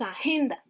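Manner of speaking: agenda with the middle syllable GEN stressed; stress on second syllable. Shown as a demonstration. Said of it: "¿dónde lleva el acento?".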